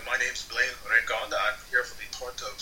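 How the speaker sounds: a hint of a badly faked Russian accent. Actor introducing himself at an audition, bad Russian accent. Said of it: "talked with this bad accent".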